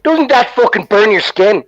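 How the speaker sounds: high, slow Irish-dad question; Irish accent. Retold or imitated. Dad questioning his son about acid, Irish accent. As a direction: imitate an incredulous Irish father, drawing it out. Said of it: "she had an Irish accent".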